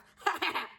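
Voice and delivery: quick demo laugh; own laugh demonstrated. Shown as a demonstration. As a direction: show off your signature cackle. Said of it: "you know how I laugh".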